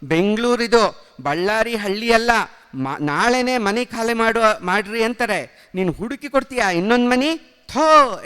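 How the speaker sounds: loud, high, disgusted yelling at mother; angry shout. Acted. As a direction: shout it in half disgust, half anger. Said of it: "ಅರ್ಧ ಕೋಪದಿಂದ ಕೂಗಾಡಿದೆ". (ಅಸಹ್ಯ ಮತ್ತು ಕೋಪದಿಂದ ಜೋರಾಗಿ ಕೂಗು)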